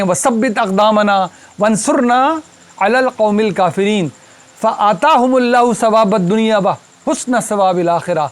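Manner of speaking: slow, measured Arabic verse recitation; Quran recitation. Acted. Teacher reciting the verse to his class, slow measured recitation. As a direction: recite the verse slowly, drawing out the long vowels.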